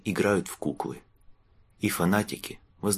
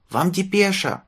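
put-on high, loud boy's shout, out of breath; breathless messenger; 13 semitones higher, 4 dB louder, slower than usual. A narrator's reading. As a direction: call it out panting like a running errand boy. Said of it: "запыхавшись, крикнул мальчишка-курьер". (запыхавшийся мальчишка-курьер кричит)

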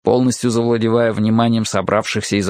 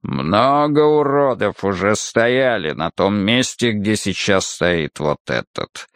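menacing brute; slower than usual. Acted. Muldoon's menacing character voice.

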